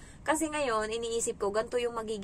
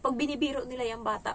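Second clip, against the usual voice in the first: normal talking voice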